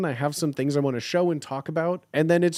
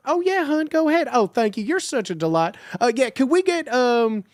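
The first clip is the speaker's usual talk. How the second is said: mock sugary Southern server voice; Southern drive-thru voice; 8 semitones higher, 4 dB louder than usual. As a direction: gush like a Bojangles cashier greeting a regular. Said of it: "literally the most thick, thick sounding, sweet voice changeover".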